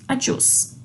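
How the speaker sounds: adiós breathed softly without voice; whispered adiós. Shown as a demonstration. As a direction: whisper adiós after the spoken take. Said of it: "o acento não necessariamente determina a entonação". (adiós sussurrado)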